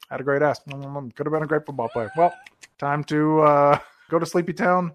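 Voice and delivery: lightly voiced mumbling actor; a hint of a mumbly movie-star impression; corrected impression. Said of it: "It should sound, like, more like this".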